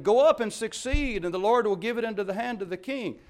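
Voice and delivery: lightly voiced mock encouragement; a hint of sarcastic prophet. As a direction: say it with sarcasm he'll catch. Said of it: "he is being sarcastic".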